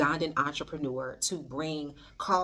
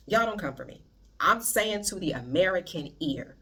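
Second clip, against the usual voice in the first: usual speaking voice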